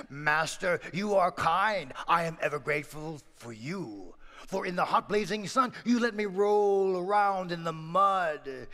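ox voice, earnest and thankful; grateful ox. Acted. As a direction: speak as a loyal ox thanking his master. Ox speaks warmly to master.

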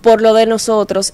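usual speaking voice

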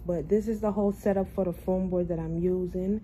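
talking with tight new braces; speech a bit off from braces; sore after braces tightening. Real, not acted. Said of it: "excuse my speech. I just got my braces tightened".

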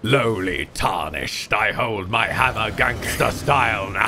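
boss villain voice. Pretend. Parodying Margit's boss taunt.

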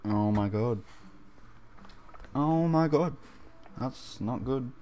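quiet. Real, not acted. Embarrassed after accidental noise.

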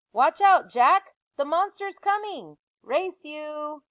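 high, loud excited shouting; playful alarm. Acted. Annie teasing Jack as she races into the woods, excited shout. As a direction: shriek it, half game, half warning.

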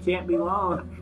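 halting put-on Russian accent. Dying note writer feeling funny, halting mock Russian. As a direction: break up the words in mock Russian.

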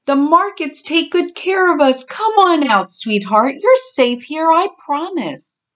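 high, coaxing reassurance; reassuring. A narrator's reading. Mother pig Oakley to the hidden newcomer, reassuring. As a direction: coax a scared little one out. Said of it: "Oakley reassured".

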